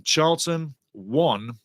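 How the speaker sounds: usual speaking voice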